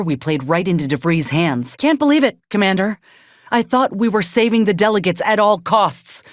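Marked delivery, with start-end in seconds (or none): 1.8-6.2 can't believe what the commander did; stunned disbelief. Acted. Companion reproaching the commander, stunned and indignant.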